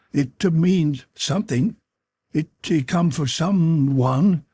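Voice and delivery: breathless dread, halting and high; gasping. A narrator's reading. James foretelling a death, gasping in fear. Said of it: "rather a series of articulate gasps".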